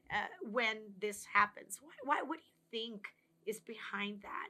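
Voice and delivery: calm, open questions, ending almost in a whisper; a caring friend across the coffee table, gently curious; gentle curious questions. Retold or imitated. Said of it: "asking you a question like this".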